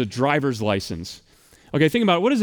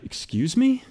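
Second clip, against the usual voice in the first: higher, startled disbelief; shocked; 6 semitones higher, slower than usual. Retold or imitated. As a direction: react like the clerk asked for your kidney. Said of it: "I'm like".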